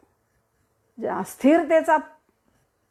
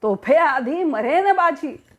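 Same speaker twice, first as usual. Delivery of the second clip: slow, declaimed heroic line; warrior's vow; 4 dB louder, much slower than usual. Acted. Wounded warrior vowing before his soldiers, slow heroic declamation. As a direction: draw the vow out slowly, lightly acted.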